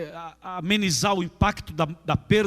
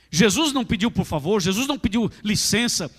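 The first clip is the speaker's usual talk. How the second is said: ordinary talk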